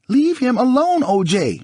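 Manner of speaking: high, loud furious shout. Acted. Nicole shouting at O J to leave Goldman, high loud shout. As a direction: scream at him to back off. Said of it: "Nicole shouted".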